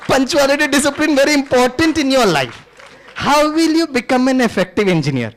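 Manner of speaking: slow, gentle version of the same scolding. Shown as a demonstration. Teacher gently lecturing a late student, drawn out. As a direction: kindly repeat the lecture, drawn out. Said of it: "बहुत प्यार से वही dialogue".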